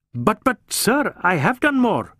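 an anxious junior officer protesting to his chief; stammering protest. A narrator's reading. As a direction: plead to be heard. Ghote protests.

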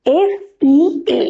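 speaker splits the word sea for listeners, spelling "এস ই এ" letter by letter; spelled out. Shown as a demonstration. Speaker breaks sea into parts for the audience, spelled out. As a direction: say "এস", "ই", "এ" as separate letters with pauses between. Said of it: "সিলেবালটাকে ভাগ করি".

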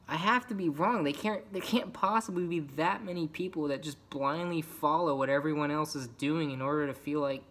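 exasperated disbelief. Acted. Outcast venting about people blindly following, exasperated disbelief. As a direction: plead against your own conclusion, voice lifted.

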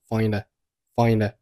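"find a" joined as "fin-duh"; linked sounds. Shown as a demonstration. Teacher demonstrating linking, "find a" as one word. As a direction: run the d of "find" into a light "a". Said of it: "find和a连读成了".

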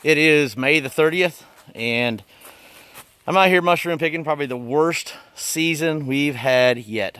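muffled through a bug mask; through a face mask. Real, not acted. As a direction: talk behind a mosquito mask. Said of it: "I got this mask on my face".

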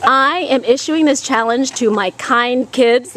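loud call to a crowd; shouting. Real, not acted. Shouting challenge to kids outside.

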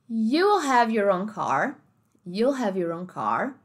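slow, deliberate American English, R in car; American accent. Shown as a demonstration. Teacher demonstrating interview question, slow American accent. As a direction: draw out the sentence with American Rs. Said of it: "American car".

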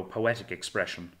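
usual speaking voice

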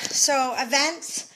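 out of breath. Real, not acted. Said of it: "sorry, I'm all out of breath".

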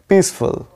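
"पीसफुल" with the last fal said fast; quick ending. Shown as a demonstration. Teacher showing to say the end quickly. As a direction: say "पीसफुल", rushing the final syllable. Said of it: "जो कि आपको fast बोलना है last में".

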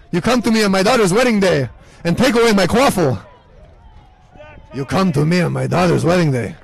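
a lightly voiced Godfather rasp; half-hearted mob boss impression; mock Godfather. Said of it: "that sounded like an old Jewish man".

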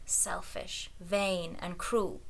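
soft unvoiced whisper. Inner voice whispering to the king, soft whisper. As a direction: hiss it softly inside his head. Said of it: "voice was whispering".

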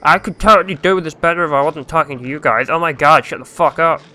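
put-on whiny complaint; mock yourself moaning to the audience; hammed-up petulant griping; whining. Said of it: "sounds like I'm whining and bitching".

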